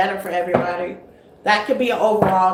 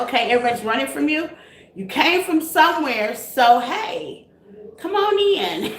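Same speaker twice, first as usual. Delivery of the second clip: coaxing the stray; 3 semitones higher than usual. Retold or imitated. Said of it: "I'm like".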